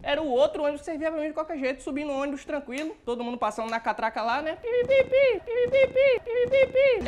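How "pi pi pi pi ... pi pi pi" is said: high, loud electronic beeping; turnstile beeps. Retold or imitated. Passengers tapping their cards at the turnstile, electronic beeps. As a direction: beep like a bus turnstile.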